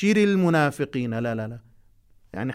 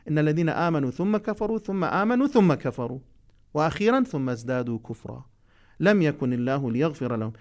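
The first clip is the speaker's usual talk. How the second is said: Quran recitation. Acted. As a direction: recite each word deliberately for the class. Repeats the passage.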